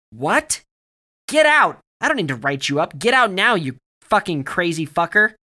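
high, loud, outraged shouting; shouted. A narrator's reading. Barry orders crazy Alex out, shouting. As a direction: shout them out of the room, furious. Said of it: "Barry shouted".

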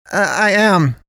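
hesitant high call. A narrator's reading. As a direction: call back a little awkwardly. Calling back across the store.

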